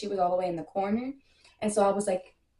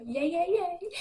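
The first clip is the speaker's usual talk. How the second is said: excited cheer; 9 semitones higher, slower than usual. Real, not acted. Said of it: "I'm super excited".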